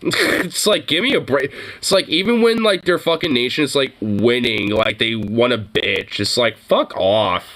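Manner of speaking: venting in disbelief, voice climbing; exasperated rant. Real, not acted.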